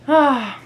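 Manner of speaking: loud, lovestruck "ah" sigh; swooning sigh. Real, not acted. Reader to viewers about her favorite book boyfriend, swooning sigh. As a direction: sigh it out, swooning over him.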